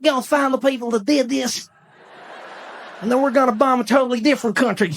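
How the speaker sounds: chuckly politician impression; George Bush. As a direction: talk as if about to chuckle. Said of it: "He always did that weird chuckly thing".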